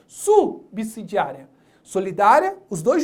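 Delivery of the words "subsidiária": subsidiária drawn out slowly; slow stressed correction. Shown as a demonstration. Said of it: "ó, solidária não".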